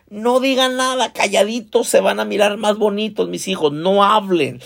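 acted, high-pitched coaxing of a crowd; coaxing hush. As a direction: voice a leader shushing his children. Josué hushing the people, voiced.

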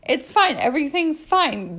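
high, forced "it's fine"; forced cheer. Real, not acted. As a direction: insist everything is fine too brightly. Forced cheer, clearly higher.

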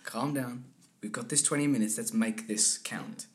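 soft, slowing to a deliberate finish; calming coach. Retold or imitated. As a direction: gently settle him, stretching the last words. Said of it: "I was like".

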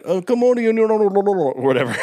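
hammed-up Arab accent, high and loud; pushy kiosk seller with an Arab accent. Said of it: "full Arab".

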